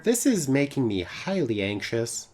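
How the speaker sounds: prim, precise helper with pitch jumps; lightly voiced formal assistant. Wrist assistant reporting broken road rules, formal. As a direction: lightly play a dutiful, worried assistant.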